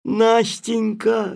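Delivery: slow, loud call of her name; cry out. Acted. The narrator cries out to Nastenka, slow and loud. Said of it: "закричал я".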